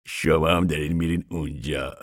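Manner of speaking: words broken by laughter; laughing. Acted. Ragged man to Papa, laughing at his hopes. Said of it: "بعد خندید".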